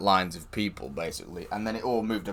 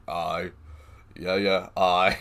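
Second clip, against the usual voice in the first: deep voice; 4 semitones lower, much slower than usual. Retold or imitated. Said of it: "in a really deep voice".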